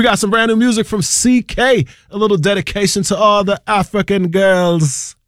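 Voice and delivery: a light put-on Jamaican accent. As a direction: slip into a playful Jamaican lilt. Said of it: "I dropped a Jamaican accent on African girls".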